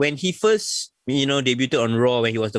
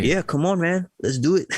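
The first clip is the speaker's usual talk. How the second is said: put-on Cockney accent; 5 semitones higher than usual. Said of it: "is it a Cockney accent".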